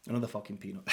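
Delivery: a low, soft laugh over a mouthful of peanuts. Real, not acted. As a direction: chuckle through the peanut. Laughing while eating peanuts.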